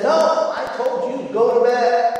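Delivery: a hint of a stern parent refusing; stern dad. Dad to son at bedtime, lightly acted firm refusal.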